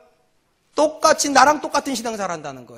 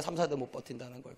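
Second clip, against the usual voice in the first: much softer and lower repeat; hushed, lower echo of the warning; quiet echo; 10 semitones lower, 16 dB quieter than usual. Shown as a demonstration. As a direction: let it land softly. Repeated for emphasis.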